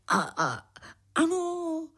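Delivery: stammered fib, rising to a high yes; lying hesitantly. Acted. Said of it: "zalhal Ramses". (váhavě zalhat)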